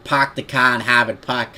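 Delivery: broad demo Boston accent. Shown as a demonstration. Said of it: "doing more like a Boston accent".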